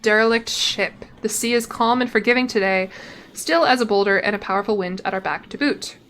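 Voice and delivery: measured reading of a sea tale; story narration. Acted. Streamer reading the sea event to viewers, story narration. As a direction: narrate the voyage like a logbook. Reads game text aloud.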